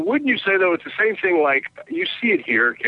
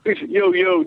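mock street talk. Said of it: "He's like".

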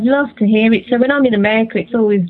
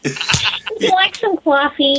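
slow, higher New York impression; New York accent; 5 semitones higher, 3 dB quieter, slower than usual. Shown as a demonstration. British singer showing interviewer how Americans sound, slow New York accent. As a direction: imitate a New Yorker, drawn out. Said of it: "you're going a little New York there".

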